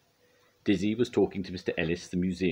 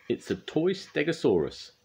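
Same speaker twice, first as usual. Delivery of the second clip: high-pitched, excited; high, pleased surprise; delighted reveal; 12 semitones higher than usual. A narrator's reading. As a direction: show off a gift brightly. Bob shows Scoop the present.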